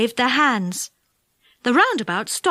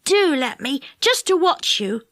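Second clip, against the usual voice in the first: mild begging; 3 semitones higher than usual. Acted. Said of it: "he begged".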